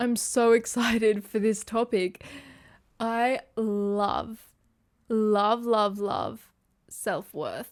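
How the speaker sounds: emotional, teary, on the edge of tears. Speaker introducing the topic of self-worth, tearing up. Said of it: "I'm kind of tearing up".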